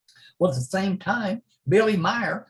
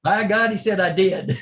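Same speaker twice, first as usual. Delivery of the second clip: emphatic; 4 semitones higher, 5 dB louder than usual. Retold or imitated. Friend's emphatic punchline.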